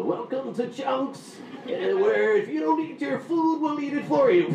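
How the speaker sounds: high, squeaky cartoon cockroach; sing-song giant bug mascot. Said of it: "mascot should have been a giant cockroach".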